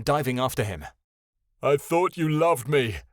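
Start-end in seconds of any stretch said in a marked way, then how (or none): 1.6-3.0 higher, louder wounded accusation; "I thought you loved me" with a hurt stress on loved. Acted. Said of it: "Ionin said as they dove".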